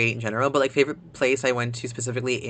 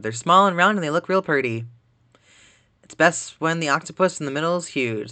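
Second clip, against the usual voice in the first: put-on country accent; 2 semitones higher, 3 dB louder than usual. Streamer reading Kansai dialect articles, in a put-on country accent. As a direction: read it like a country local, y'all and all. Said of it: "more of a country dialect".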